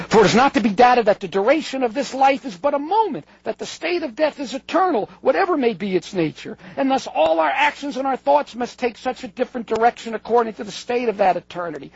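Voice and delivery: quotation reading. Acted. Lecturer quoting Pascal on death and eternity, emphatic reading.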